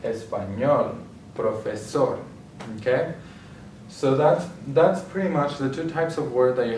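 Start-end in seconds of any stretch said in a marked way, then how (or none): 0.0-1.0 español stressed on ÑOL; espa-ÑOL, lean on the final syllable; stress on last syllable. Shown as a demonstration. Teacher giving examples of palabras agudas, stress on last syllable. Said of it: "be on the last syllable". 1.3-2.2 profesor stressed on SOR; profe-SOR, lean on the final syllable; stress on last syllable. Shown as a demonstration. Teacher giving examples of palabras agudas, stress on last syllable. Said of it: "be on the last syllable".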